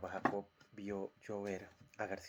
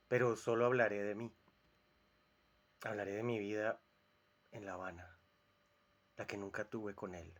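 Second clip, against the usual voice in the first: declaimed, with loud openings to phrases; theatrical monologue; 5 dB louder than usual. Acted. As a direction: address the audience like a proud poet on stage. Dramatic monologue, poet addresses audience.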